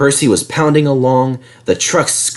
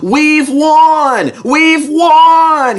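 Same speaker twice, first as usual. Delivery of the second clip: much higher, loud victory cry; triumphant shout; 6 dB louder, much slower than usual. A narrator's reading. Fireman shouts from the cab roof, triumphant. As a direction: crow it from the roof. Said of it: "he shouted".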